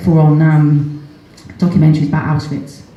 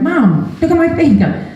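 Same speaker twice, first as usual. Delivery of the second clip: son's excited call; 9 semitones higher than usual. Retold or imitated. Son voiced showing his finger.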